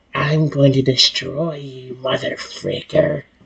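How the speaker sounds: strange, slow, put-on serpent voice. Speaker demonstrates the snake voice they have to do, weird snake voice. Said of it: "The snake voice, I have to like do that weird like".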